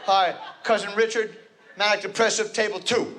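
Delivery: light mock stadium announcer. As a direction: introduce each guest like a player. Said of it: "introductions at college football games".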